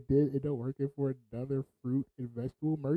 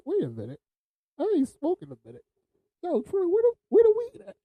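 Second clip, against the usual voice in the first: builds from plain to a much higher, louder call; rising call-out; 5 dB louder than usual. Retold or imitated. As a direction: start puzzled, end calling out across the truck. Paulie noticing the missing weed.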